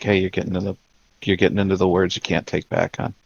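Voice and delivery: soft, close-up aside; hushed caution. Acted. Pulling her close to caution her, hushed. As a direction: say it softly, just for her.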